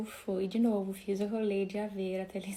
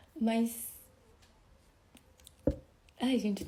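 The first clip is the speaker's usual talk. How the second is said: choked up, moved, emotional voice; 2 semitones higher than usual. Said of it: "tô emocionada agora".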